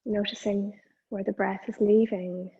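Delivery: measured meditation guidance, pausing between phrases; guided meditation. Acted. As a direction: guide attention to the breath, leaving long silences.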